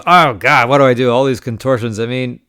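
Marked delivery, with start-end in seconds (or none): 0.1-1.1 mock agonized. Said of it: "he made this whole face".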